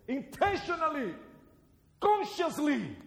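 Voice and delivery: high, loud declaration; preached emphasis. Acted. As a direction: ring each word out from the pulpit. Sermon emphasis.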